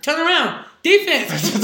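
high, loud sideline call; imitated coach's shout. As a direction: call it out urgently to a player on court. Retold coach calling to player.

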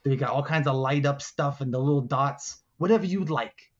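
lightly voiced generous alligator; a hint of a gator dealmaker; alligator making an offer. Alligator offers helpers a prize, lightly voiced dealmaking.

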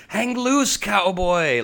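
high, loud yee-haw cowboy cheer; hammed-up American cowboy. Friend mocking American stereotypes, brash cowboy cheer. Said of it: "we should definitely be like".

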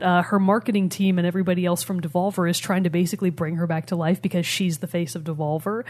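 choking while talking; coughing through the words; choking on a drink. Real, not acted. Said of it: "I'm sorry, I'm choking".

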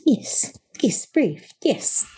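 high breathy little critter whisper; tiny creature whispering praise. Acted.

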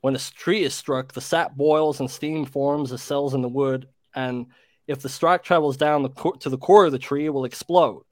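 reading in a put-on American accent. Brit reads creature tale to friends on request, American accent. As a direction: read it aloud like an American. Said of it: "Yeah, American accent".

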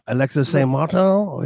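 lightly put-on French Canadian accent. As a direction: say the name with a hint of French Canadian. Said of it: "Get your French Canadian accent".

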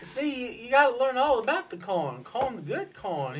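put-on old farmer. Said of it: "you sound like a plantation farm owner".

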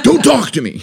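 high, loud mock snap; mock angry snap. Husband imitating himself snapping at his wife, mock angry. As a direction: bite her head off, half in jest. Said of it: "I was so angry".

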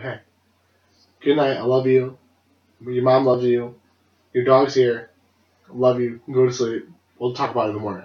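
low-key, soothing goodnight; imitating a reassuring father; gentle dad. Dad tucking son into bed.

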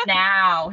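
imitating a demanding cat's meow on "Now"; "Now" meowed, insisting on action. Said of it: "He's demanding for something to happen".

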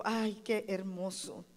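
ordinary delivery

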